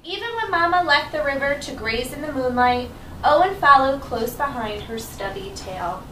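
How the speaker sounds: put-on reading to children. Teacher reads story to children.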